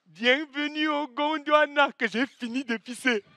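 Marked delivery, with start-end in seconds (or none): 0.1-1.9 over the intercom. Retold or imitated. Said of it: "elle commence à dire".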